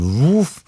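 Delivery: drawn-out "woof" of a blast; imitated explosion whoosh. Storyteller imitating a mortar blast, whooshing. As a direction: mimic a mortar roaring into the microphone.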